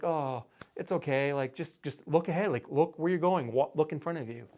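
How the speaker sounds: mildly gentle, reassuring parent tone; consoling a child. Retold or imitated. Parent soothing a toddler who hit a beam, gently reassuring. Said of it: "we're trying to console him".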